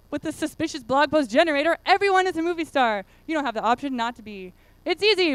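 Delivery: lightly hammed infomercial voice; fake ad pitch. Presenter keeps reading the fake ad in a light infomercial voice. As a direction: keep selling the gadget. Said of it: "a fake advertising thing".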